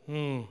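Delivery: low, soft weary hum; acted "hmm". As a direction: give a quiet, low "hmm". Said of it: "when you just go".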